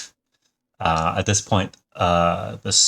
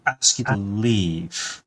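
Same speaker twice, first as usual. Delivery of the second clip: confused doctor; 6 semitones higher than usual. Acted. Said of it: "confused look on his face and says".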